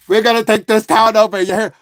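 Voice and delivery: mock Italian-American mobster line; retry the Italian-American mobster accent; attempted Italian accent. Shown as a demonstration. Streamer retrying his line to prove himself, Italian-American accent. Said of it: "when I try to do one accent".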